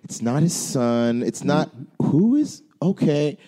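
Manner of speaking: slow, puzzled moviegoer; mock a confused audience, slowly; confused crowd. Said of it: "everyone in the crowd to have enough time to go".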